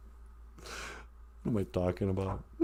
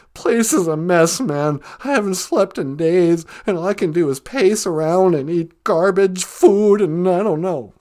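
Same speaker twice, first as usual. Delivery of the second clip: lightly voiced anxious caller; a hint of the Cowardly Lion. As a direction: mumble the mess like a nervous lion. Lion describes his messy place.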